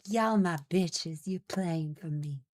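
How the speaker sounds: slow, lazy Southern drawl for the cat; a lightly voiced Southern belle cat, slow and sassy; southern accent. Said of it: "I give Dex a southern accent".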